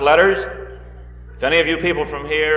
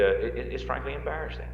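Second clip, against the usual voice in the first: Dean Rusk impression; 12 dB quieter than usual. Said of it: "that accent just, uh, uh, slipped out".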